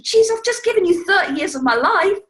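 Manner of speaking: hurt wife venting with a shrieking laugh; mock outraged wife, high, loud, laughing; exasperated wife. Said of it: "the woman's thinking".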